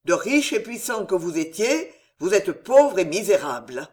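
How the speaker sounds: a hint of madness, pressing hard; half-mad anger. Henri confronting the old lord, voice half mad. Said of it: "dit-il d'une voix démente".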